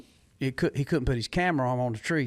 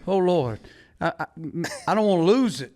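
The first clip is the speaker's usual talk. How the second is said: mock desperate prayer; 2 semitones higher than usual. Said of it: "I was up there like".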